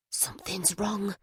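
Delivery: hushed, breathy whisper. A narrator's reading. Butterfly warning Jack from the back seat, whispering. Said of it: "Butterfly whispered from the back seat".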